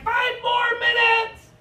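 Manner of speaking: very high, slow shouted warning; parent call. Retold or imitated. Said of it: "they're like".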